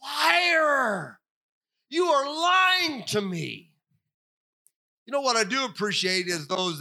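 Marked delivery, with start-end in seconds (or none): 0.0-3.7 high, slow outraged cry; mock scream. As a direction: yell it like you've had enough. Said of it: "I wanna scream as loud as I possibly can".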